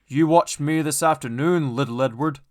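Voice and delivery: loud, proud big engine; boastful Gordon. A narrator's reading. Gordon boasting to little Edward, loud and proud. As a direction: boast down at him. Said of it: "he boasted".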